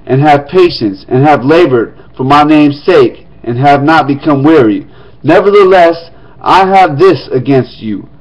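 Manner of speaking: formal reading of Revelation; scripture reading. Acted. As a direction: read the letter aloud to the congregation. Reads letter to Ephesus.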